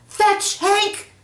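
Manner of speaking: high, loud command to the dog; shout. Acted. Peter shouting to his dog Hank, high and loud. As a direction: call it out sharply. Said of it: "shouted Peter".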